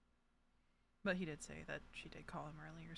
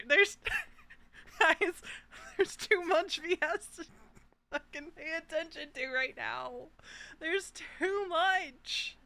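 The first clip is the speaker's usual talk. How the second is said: exasperated exclaiming; 11 semitones higher, 16 dB louder, slower than usual. Real, not acted. Overwhelmed player exclaims to chat.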